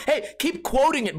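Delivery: high, annoyed mock encouragement; hammed-up fed-up jab; sarcastic exasperation. Telling friend who quotes unseen movie, sarcastic.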